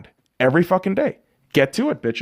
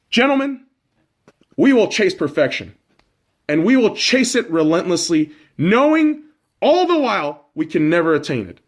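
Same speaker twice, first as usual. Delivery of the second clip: quoting Vince Lombardi; 3 semitones lower than usual. Retold or imitated. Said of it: "let me quote the great Vince Lombardi".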